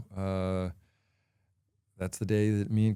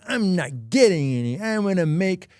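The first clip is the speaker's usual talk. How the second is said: loud, higher whiny-tantrum imitation; mock toddler tantrum; mock pouting baby; 6 semitones higher, 4 dB louder than usual. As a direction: act out a sulking little baby, drawing out the words. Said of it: "acting like a little baby, like".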